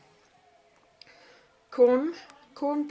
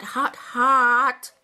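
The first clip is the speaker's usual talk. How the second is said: louder hot, hot through burning mouthful; mouth full of hot food; 4 semitones higher, 11 dB louder than usual. Real, not acted. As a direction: yelp it out as the spice hits. Spicy snack burning his mouth.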